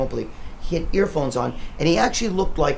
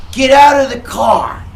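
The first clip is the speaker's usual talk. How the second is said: higher, louder, slow barked command; gunman's shout; 8 semitones higher, 9 dB louder, slower than usual. Retold or imitated. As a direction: order him out at gunpoint. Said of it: "he goes to me".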